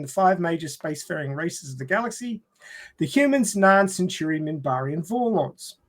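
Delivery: formal read-aloud of a show summary; plot synopsis read. Real, not acted. Host resuming the plot summary for the panel, synopsis read. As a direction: read out the premise in measured phrases.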